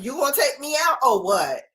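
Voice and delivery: high, fast sassy demand; sassy dog voice. Retold or imitated. Giving the dog's voice, a sassy demand.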